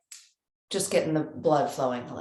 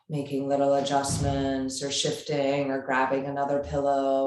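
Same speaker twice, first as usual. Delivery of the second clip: measured yoga-teacher guidance with long pauses; unhurried, evenly spoken meditation cueing; guided meditation. Real, not acted. Yoga teacher settling a class into seated breathing, guided meditation.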